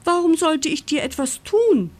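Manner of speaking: high, lilting amused question. A narrator's reading. Farm dog reassures the frightened mole, amused. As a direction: ask it high, with a smile. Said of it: "schmunzelt Felix".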